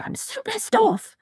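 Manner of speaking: put-on high, slow, sulky child voice; mock sulky kid, dragged out; imitating cross daughter. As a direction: put on your daughter's huffy whine. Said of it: "she was like".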